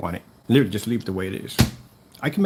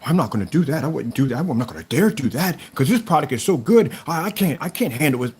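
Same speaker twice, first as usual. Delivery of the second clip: hammed-up fake amazement; sarcastic mock awe; 2 semitones higher than usual. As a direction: pretend to be overwhelmed, sarcastically. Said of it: "Do you think I'm gonna go".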